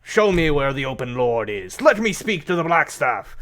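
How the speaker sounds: a proud giant calling for the Blackstaff; commanding giant. Acted. Giant demands to be taken to the Blackstaff, loud commanding voice.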